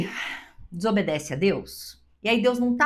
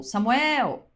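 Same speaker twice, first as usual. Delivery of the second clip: higher, drawn-out acted call; the Lord calling; 4 semitones higher than usual. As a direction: call the boy's name from afar. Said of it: "o Senhor chamou". (chamado do Senhor, nome alongado e mais agudo)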